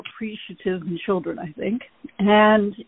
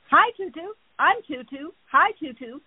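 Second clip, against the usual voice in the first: lightly voiced bird, pitched up on each greeting; imitated pet bird; 5 semitones higher than usual. Pet bird greeting people in other cars, lightly mimicked. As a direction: mimic a bird's higher-pitched hello. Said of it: "you can see him, he's going".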